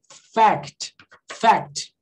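"fact" said slowly and on its own; pronunciation demo. Shown as a demonstration. Teacher showing students how to pronounce fact, careful demo. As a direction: model "fact" as one careful, separate word. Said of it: "como é que eu pronuncio aqui".

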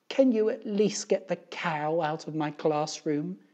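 lightly voiced put-upon teacher; exasperated teacher. A narrator's reading. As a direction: plead for one small favour. Exasperated teacher makes a request.

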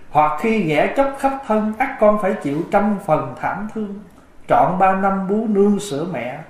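measured, chant-like recital of scripture verse; sutra recitation. Acted. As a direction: devotional verse recitation in a sermon. Recites the filial piety sutra.

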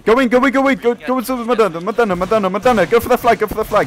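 loud, high charge command; shouting orders. Real, not acted. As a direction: yell the charge.

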